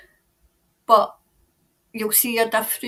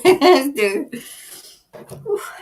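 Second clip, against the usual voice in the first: laughing; 2 semitones higher, 7 dB louder than usual. Real, not acted. Laughing at pulling two cards.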